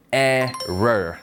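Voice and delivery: "error" drawn out slowly in English, falling at the end; English pronunciation. Shown as a demonstration. Teacher repeats the word for learners, slow English "error". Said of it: "발음 따라해 볼게요".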